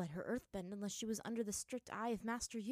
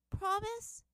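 put-on high, slow tearful little-girl question; girl tearfully asking her parents; 6 dB louder than usual. A narrator's reading. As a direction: ask through tears.

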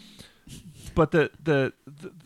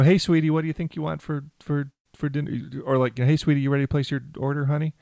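sugary waitress; 4 semitones higher, faster than usual. Retold or imitated. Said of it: "lays it on super thick".

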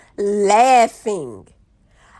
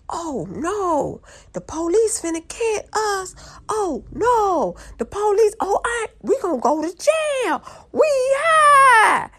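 high-pitched panic; 9 semitones higher than usual. Retold or imitated. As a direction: wail it like you're doomed, high-pitched. High, panicking at seeing police.

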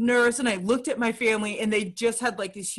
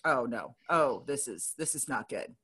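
mock dread; 6 semitones lower, 6 dB quieter than usual. Retelling her fear in the hospital in a soft mock dread. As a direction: let the dread sink in quietly.

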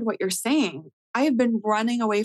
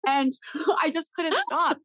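laughing whisper; 9 semitones higher than usual. Real, not acted. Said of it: "laughing whisper".

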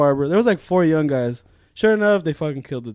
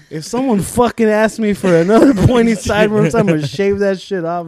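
mild mock rant; 4 semitones higher, 5 dB louder than usual. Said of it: "goes on this mean rant".

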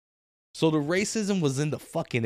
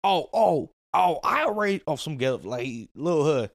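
imitating a delivery guy; 3 semitones higher than usual. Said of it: "some black dude".

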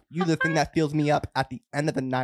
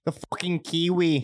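scoffing put-on Aussie; Australian accent; 3 semitones higher than usual. Australian dismissing the man as a Kiwi, Australian accent. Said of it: "the worst Australian accent".

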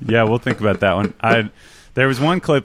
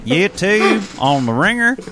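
mock Kentucky voice; 11 semitones higher, slower than usual. Repeats plug in caricature voice.

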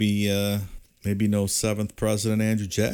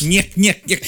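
Three Stooges nyek; 10 semitones higher, 3 dB louder, slower than usual. Retold or imitated. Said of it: "This sounds like a Three Stooges episode".

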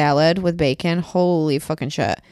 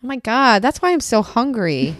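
higher and louder, real surprise; sudden realization; 5 semitones higher, 3 dB louder than usual. Real, not acted. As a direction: it just dawned on you. Realizes why she is hungry.

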